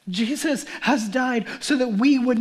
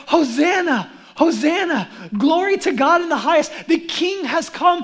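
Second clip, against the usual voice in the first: jubilant crowd cheer; 4 dB louder than usual. Acted. Jerusalem crowd hailing their king, jubilant and loud.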